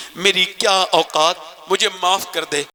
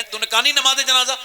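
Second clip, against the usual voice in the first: anxious question; 10 semitones higher, faster than usual. Retold or imitated. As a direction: press her anxiously for an answer. (بےچینی سے سوال)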